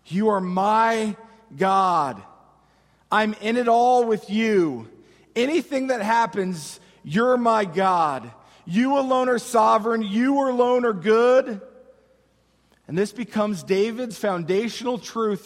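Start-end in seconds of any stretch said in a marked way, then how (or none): 0.0-11.6 proclaiming. Acted. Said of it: "David's proclaiming his relationship to God".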